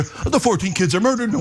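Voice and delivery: flat robotic anchor voice; deadpan robot newsreader. Retold or imitated. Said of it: "like goddamn robots".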